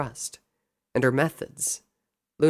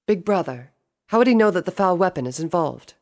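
higher-pitched little sister voice; inquiring princess, raised pitch; questioning sister; 7 semitones higher, 5 dB louder than usual. Acted. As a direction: ask big brother, pitched up. Younger sister asks her brother.

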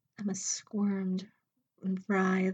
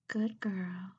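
whispered praise. Acted. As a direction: breathe it like a tender secret. Mistress praises relaxed Emma.

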